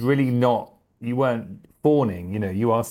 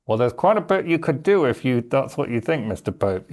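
mock retort to the Pope; 4 semitones higher than usual. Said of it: "But I also go".

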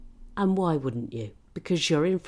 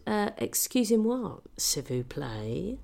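tipsy schoolboy French; 3 semitones higher than usual. Retold or imitated. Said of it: "I said".

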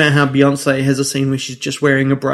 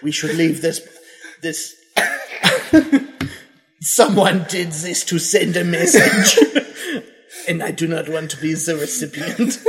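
solemn French inspector, giggling; French accent. Acted. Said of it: "we also have to do French accents".

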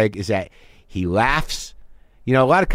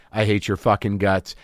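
lower, muttered private hate; 6 semitones lower than usual. Shown as a demonstration. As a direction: grumble it under your breath. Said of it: "I was talking to a made-up person".

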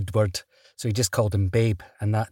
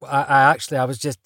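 stammering, slightly raised opening that trails away; mock fumbling for an answer; flustered stammer; 2 semitones higher, 3 dB louder, faster than usual. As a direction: imitate being caught off guard. Retold flustered reply to a challenge.

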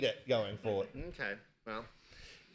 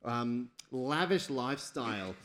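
lightly dramatic storytelling with slowed key words; game master narration; 4 semitones higher, slower than usual. Pretend. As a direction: narrate the mishap, stretching the blow.

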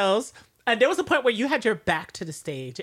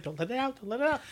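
mock self-restraint; 7 dB quieter, faster than usual. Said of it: "I was like".

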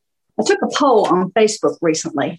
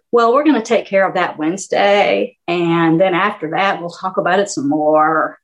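vocal fry. Shown as a demonstration. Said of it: "they'll kinda go down and say this".

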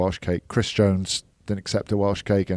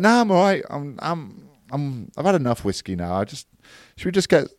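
much higher, squeaky dodging voice; squeaky Jamie impression; 8 semitones higher than usual. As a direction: wriggle out of it in a high squeak.

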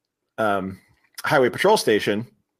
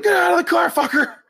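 high, laughing squeaky cop voice; hammed-up high cop voice; mock cop yell. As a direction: bark it like a cartoon cop while cracking up. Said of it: "He's like".

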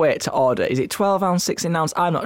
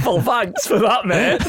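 slow, higher, laughing reply; amused mock thanks; 5 semitones higher, slower than usual. Real, not acted. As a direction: say it through laughter. Teased, laughs while replying.

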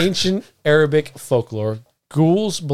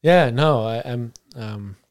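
breathless wheeze after laughing; wheezing through the words; wheezy voice; 2 semitones lower than usual. Real, not acted. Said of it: "I'm wheezing over here".

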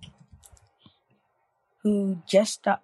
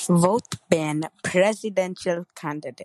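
Arnold impression. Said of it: "I am Arnold Schwarzenegger".

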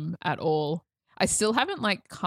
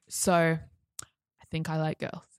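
slowly, each word dragged out; slow nervous confession; much slower than usual. Retold or imitated. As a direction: squeeze out the confession hesitantly. Nervous coming out.

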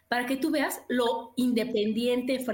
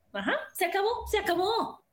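airy sing-song letting go; 7 semitones higher than usual. Real, not acted. Letting the discount go.

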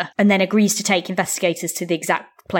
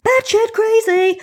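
high, loud, drawn-out cry; mock group exclamation; 5 dB louder, slower than usual. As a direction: call it out slow and very high, exaggerated. Imagined group reaction, acted out.

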